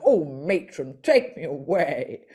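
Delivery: a light camp Carry On voice, slowing into a laugh; mimicking the voice box catchphrase, a touch camp and slow; Kenneth Williams. Telling the host about her voice box, lightly camp Kenneth Williams. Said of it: "I'm pretty sure it is Kenneth Williams' voice".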